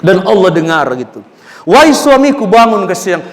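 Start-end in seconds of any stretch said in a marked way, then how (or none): 1.7-2.8 urgent wake-up call. Acted. Wife waking husband urgently.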